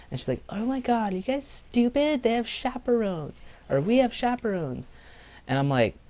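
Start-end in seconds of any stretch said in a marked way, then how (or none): 0.5-4.9 put-on high, indignant girl voice; mock yell pitched way up; imitated scolding girl. Girl telling off college boys about chaperones, high mock scolding.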